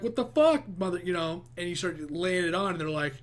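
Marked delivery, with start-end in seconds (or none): 0.0-1.0 mock outburst. Acting a snapping outburst.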